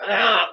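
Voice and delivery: short growl of exasperation; frustrated ugh. Shown as a demonstration. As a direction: voice a quick "ugh" of anger. Acts out the angry feeling.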